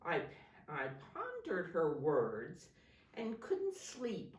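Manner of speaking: put-on clear, projected story reading to children; picture-book narration. A narrator's reading. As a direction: read it out expressively, stressing key words. Reads picture book aloud.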